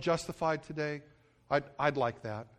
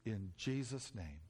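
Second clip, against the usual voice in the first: earnest prayer. Real, not acted. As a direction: pray aloud for the whole church, ending in a hushed plea. Leads congregation in prayer.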